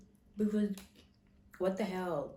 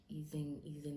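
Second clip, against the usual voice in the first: relieved whisper; 3 semitones lower, 7 dB quieter than usual. Retold or imitated. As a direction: whisper as the pain eases. Feeling painkiller kick in.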